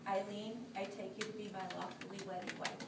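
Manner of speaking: solemn vow, said for her to repeat; saying wedding vows. Shown as a demonstration. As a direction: read the vow line out clearly. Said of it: "the part you're going to repeat after me".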